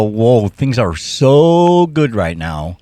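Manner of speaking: drawn-out, wondering "Whoa"; slow amazed inner voice. Retold or imitated. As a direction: stretch it out slowly, marvelling. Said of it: "my brain will go".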